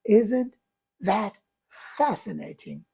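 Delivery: soft, slow, falling "fascinating"; calm curiosity. Shown as a demonstration. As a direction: turn frustration into gentle wonder. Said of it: "what I say is".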